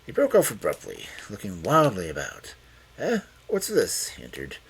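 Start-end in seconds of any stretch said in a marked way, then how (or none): 3.0-4.1 startled. A narrator's reading. Old man startled awake.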